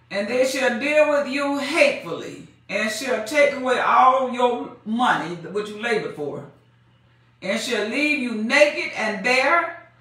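slow, solemn pulpit reading of the verse; measured preaching cadence; scripture reading. Acted. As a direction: read it like the Word itself. Preacher reads scripture aloud.

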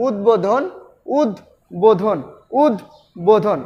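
উদ্বোধন said as উদ, short break, বোধন; model pronunciation. Shown as a demonstration. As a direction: keep the ব audible in উদ্বোধন, উদ-বোধন. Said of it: "উচ্চারণটা এভাবে করবে". (উদ্বোধন ভেঙে উদ-বোধন)

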